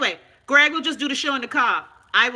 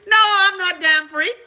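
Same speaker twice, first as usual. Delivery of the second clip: indignant retort; 6 semitones higher, 6 dB louder than usual. Retold or imitated. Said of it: "I hear people ask me".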